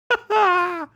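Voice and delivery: sudden high-pitched laugh; high squeaky laugh. Real, not acted. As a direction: let out a squeaky giggle. Laugh after missing zoom.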